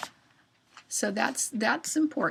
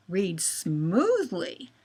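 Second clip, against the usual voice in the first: smoothly; 2 semitones lower, 4 dB louder, much slower than usual. Shown as a demonstration. Teacher models the word smoothly.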